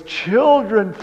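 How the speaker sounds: high, pleading mother's voice; sweet pleading. Retold or imitated. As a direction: beg the children gently to obey. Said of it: "a very pleading voice".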